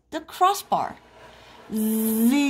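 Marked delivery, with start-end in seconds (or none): 1.7-2.5 zing. A narrator's reading. Sound effect in story.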